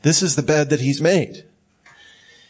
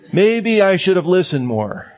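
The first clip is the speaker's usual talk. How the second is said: fake apology; 4 semitones higher than usual. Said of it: "That's minimizing".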